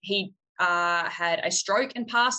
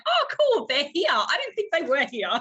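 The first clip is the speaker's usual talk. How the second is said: high, bright mock-cheerful sarcasm; sarcastic cool; 9 semitones higher, 3 dB louder than usual. Learning scorpions are at work, mock-cheerful high sarcasm. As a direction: fake delight hiding dread.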